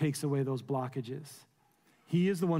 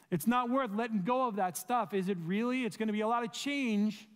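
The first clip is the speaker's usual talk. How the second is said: higher voice of nagging doubt; voicing doubtful thoughts; 5 semitones higher than usual. Preacher voicing the doubts that creep in, mock-doubtful. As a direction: play the whispering doubt in your head. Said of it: "thoughts telling you".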